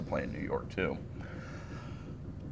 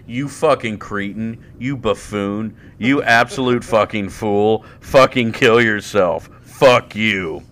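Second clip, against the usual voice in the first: louder, laughing mock abuse; mock insults; 5 dB louder than usual. Mock-insulting a friend, louder and laughing. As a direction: bark playful insults at him.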